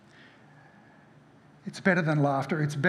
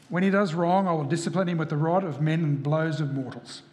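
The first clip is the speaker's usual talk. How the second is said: firm, declarative Bible reading; emphatic pulpit reading of a prophecy; scripture reading. Acted. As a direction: read it out as a solemn proclamation from God. Reads prophet's message aloud.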